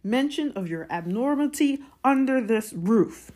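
high, forceful outrage; angry scolding. A narrator's reading. Uncle forbidding any mention of magic at home, angry.

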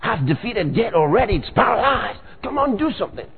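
put-on a low, hurried nudge to his kids; God urging his children. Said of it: "He feels it like".

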